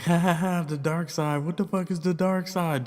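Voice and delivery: high-pitched mock laughter running into the words; imitated drunken laughing. Drunk friends laughing off the driver's question, high mock laughing. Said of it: "they're all laughing like".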